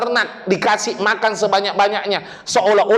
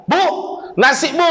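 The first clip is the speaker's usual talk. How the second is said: retold shout; 7 semitones higher than usual. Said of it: "Akhirnya teriak dia".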